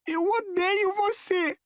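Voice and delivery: high, drawn-out outburst of hatred; slow, high-pitched fury; furious. A narrator's reading. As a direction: spit hatred in a high, strained boy's voice. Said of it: "tremia de fúria".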